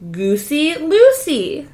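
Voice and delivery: usual speaking voice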